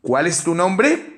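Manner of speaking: "¿Cuál es tu nombre?" said slowly, pitch climbing toward the end; rising question tune. Shown as a demonstration. Teacher demonstrating question intonation to the class, slow rising tune. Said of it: "decimos así".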